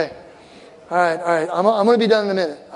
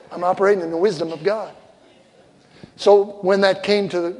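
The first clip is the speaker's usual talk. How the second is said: usual speaking voice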